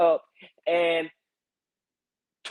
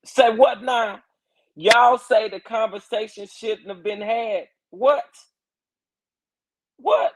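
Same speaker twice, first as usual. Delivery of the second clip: high, loud disbelief, climbing higher; incredulous; 4 semitones higher, 4 dB louder than usual. Real, not acted. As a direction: react in raised-pitch astonishment. Disbelief at what critics say.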